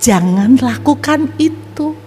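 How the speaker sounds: slow, gentle voice in proper Indonesian; divine voice. Retold or imitated. God speaks to the despairing young man, slow and gentle. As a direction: say it slowly and lovingly, like God. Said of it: "Ini bahasa Indonesia yang baik".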